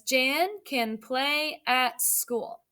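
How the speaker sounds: put-on slow, word by word for young readers; slow read-aloud. Shown as a demonstration. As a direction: read it out slowly so kids can follow. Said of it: "read it with me this time".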